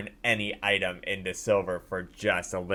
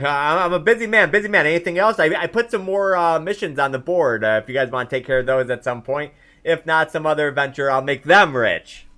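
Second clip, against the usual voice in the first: loud, higher-pitched, brusque busy man; 6 semitones higher, 9 dB louder than usual. Acted. Quest-giver hurrying the adventurers off, loud busy man. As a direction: play a busy man dismissing visitors loudly. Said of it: "'Cause he's like".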